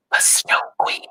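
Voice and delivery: breathless frightened whisper of the name. A narrator's reading. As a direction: hush it like a rumour. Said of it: "whispers filled the air".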